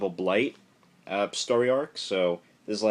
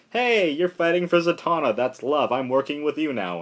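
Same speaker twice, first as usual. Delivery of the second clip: eager mock angel; 6 semitones higher, 4 dB louder than usual. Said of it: "And Zoriel's like".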